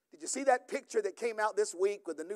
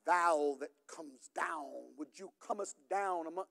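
mock old-fashioned prayer talk; slower than usual. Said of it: "we even talk in a different language".

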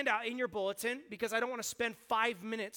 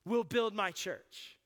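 slow, word by word; 2 semitones lower, slower than usual. Shown as a demonstration. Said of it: "meditate on every word individually".

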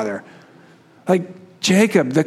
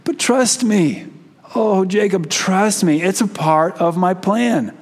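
gentle God reassuring. Retold or imitated. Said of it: "God saying".

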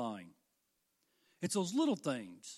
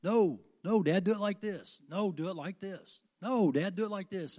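a son cutting in, higher and louder, insisting; son arguing; 3 semitones higher, 5 dB louder than usual. Retold or imitated. Son arguing back at his father, higher and louder. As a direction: push back at Dad, hammed-up stubborn son. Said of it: "He's like".

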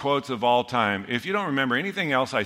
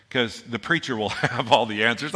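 laughing. Real, not acted. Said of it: "I can't even say that without laughing".

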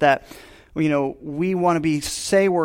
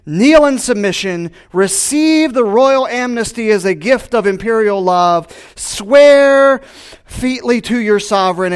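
loud, high proclamation to the whole town; town crier; 7 semitones higher, 10 dB louder than usual. Acted. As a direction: call out a royal decree in the square. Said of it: "Imagine this town crier".

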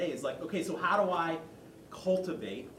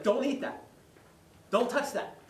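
parent warning; 8 semitones higher, 3 dB louder than usual. Retold or imitated. Parent scolding toddler.

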